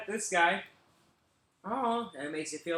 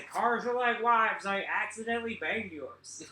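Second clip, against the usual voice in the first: slow sticker read; 4 semitones higher than usual. Retold or imitated. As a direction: read the slogan slowly like a punchline. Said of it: "They say".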